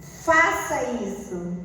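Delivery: slow, flat order; curt command. Shown as a demonstration. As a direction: bark it like a demand. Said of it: "quando alguém fala assim". (ordem seca e mandona)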